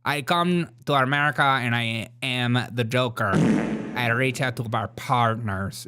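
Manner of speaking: lightly mimicked unplaced foreign accent; a hint of a guessed Jamaican or French accent; mock foreign accent. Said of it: "What accent is that?".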